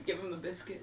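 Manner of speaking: very quiet, hushed half-whisper, barely audible. Retelling how he half-whispered a line while getting ales: imitating someone half-whispering. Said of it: "he's whispering to me".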